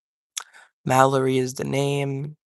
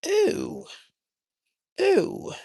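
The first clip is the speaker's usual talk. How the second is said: high squeaky ooh to the cat; cooing at cat. Real, not acted. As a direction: coo at the cat in a tiny high voice.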